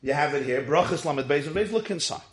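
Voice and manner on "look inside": ordinary delivery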